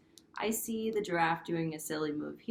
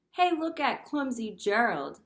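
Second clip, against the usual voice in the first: sneering; 3 semitones higher, 6 dB louder than usual. Acted. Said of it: "all the animals sneered".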